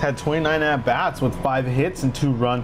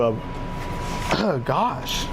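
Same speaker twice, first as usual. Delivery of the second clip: yawning; 3 dB quieter than usual. Real, not acted. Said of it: "Makes me yawn a lot in here".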